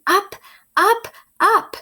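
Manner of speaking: soaring storybook up; rising up. A narrator's reading. Read-aloud sound play of rising.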